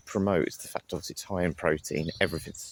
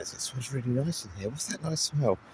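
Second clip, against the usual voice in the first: lightly voiced curious passer-by; higher, wondering tone; imitating people; 7 semitones higher than usual.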